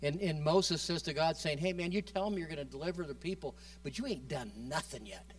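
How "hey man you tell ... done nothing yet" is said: casual talk to God. Retold or imitated. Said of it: "just the way that he would talk to God".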